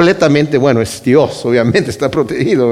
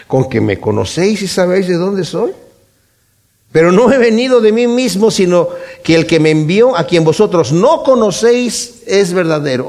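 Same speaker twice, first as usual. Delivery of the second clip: sarcastic; 3 semitones higher than usual. Retold or imitated. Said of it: "lo dice con sarcasmo".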